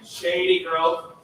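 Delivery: light, bouncing syllables; bouncy. Shown as a demonstration. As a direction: let each note bounce. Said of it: "I wanna let this bounce".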